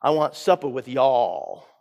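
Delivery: lightly put-on Southern accent; a touch of Southern twang for a joke; playful, mild Southern accent. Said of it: "In his best Southern accent".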